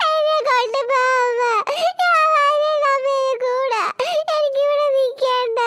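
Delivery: put-on a touch of tearful toddler; crying child. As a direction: sob out the plea to go home.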